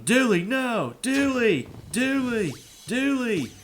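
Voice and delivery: mock yelling for a runaway dog; calling a dog. Imitating the neighbor screaming for her dog Dooley. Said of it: "I was going".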